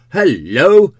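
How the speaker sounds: loud, high swooping hello; big rising-and-falling shout; startled call. Acted. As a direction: call out sharply toward a closed door. Calls out on hearing thud.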